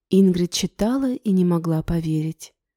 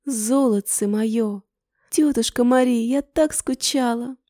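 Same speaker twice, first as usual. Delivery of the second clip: overjoyed; 5 semitones higher than usual. Acted. Tearful joyful reunion.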